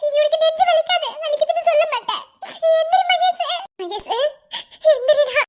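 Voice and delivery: tearful comfort. Acted. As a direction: comfort him through sobs. Mother cries over son. (அழுகையுடன் உரத்த ஆறுதல்)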